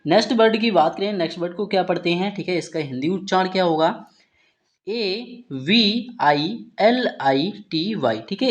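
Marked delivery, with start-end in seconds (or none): 4.9-8.2 slow, letter-by-letter spelling; teacher spelling out a word. Shown as a demonstration. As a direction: spell each letter slowly for learners. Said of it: "इस word का उच्चारण करेंगे".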